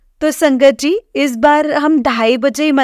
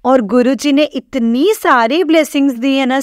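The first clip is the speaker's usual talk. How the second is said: ordinary delivery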